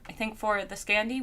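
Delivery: ordinary delivery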